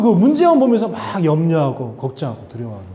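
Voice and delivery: ordinary talk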